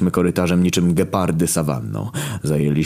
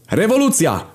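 shouted slogan. Retold or imitated. Narrator rallies the crowd from the changing table, shouting. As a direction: yell it like a rebel leader. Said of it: "krzyknąłem".

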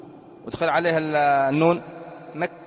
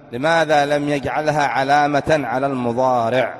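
slow, deliberate question, each word spaced; slower repeat; slower than usual. Shown as a demonstration. Teacher repeats the question to his students, slow and deliberate. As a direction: repeat it slowly so every student catches it. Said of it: "teacher repeats question to class".

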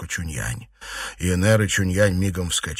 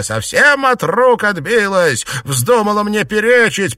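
high, loud, slow outraged yell; aunt shouting her complaint; furious complaint; 10 semitones higher, 6 dB louder than usual. A narrator's reading. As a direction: rage at the girl's defiance. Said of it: "подхватила тётка".

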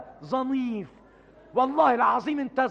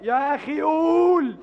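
exasperated shout; 5 semitones higher, 3 dB louder, slower than usual. Acted. Impatient demand to tell joke.

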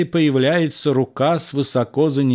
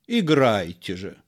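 offhand; 2 semitones lower than usual. Acted. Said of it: "Первый маркиз небрежно".

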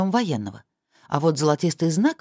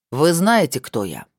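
menacing; 4 dB louder, slower than usual. Acted. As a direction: let the threat hang. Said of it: "транслировали нескрываемую угрозу".

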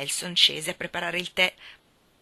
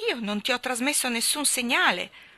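furious; 5 semitones higher than usual. Acted. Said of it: "disse Nora furibonda".

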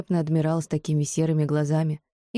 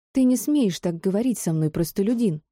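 yelling; 4 semitones higher than usual. Acted. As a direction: shout at full strength. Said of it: "Что есть мочи, заорала Амара".

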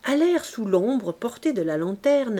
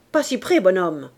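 Éponine warning; 6 dB louder than usual. Acted. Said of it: "dit-elle".

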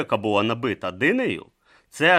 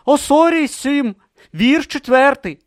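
involuntary citation; 11 dB louder than usual. Acted. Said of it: "мимоволі визначив Брутто".

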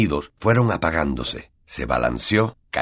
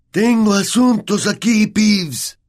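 growled; 6 dB louder, slower than usual. A narrator's reading. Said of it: "gruñó Harry".

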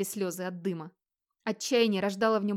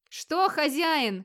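higher, drawn-out slow shout; a servant calling for orders amid the fire; slow raised call; anxious call; 7 semitones higher, much slower than usual. Acted. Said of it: "крикнул он".

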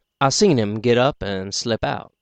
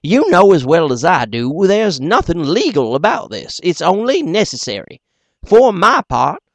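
higher, louder, hurried complaint; hasty feller; 8 semitones higher, 7 dB louder than usual. Acted. A hasty man complaining to the meeting, impatient and louder. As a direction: rush it out, impatient with the fuss. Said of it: "very hasty".

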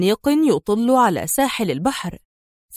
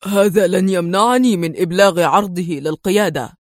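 firm; 2 semitones lower than usual. A narrator's reading. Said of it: "قال ديفيد في حزم".

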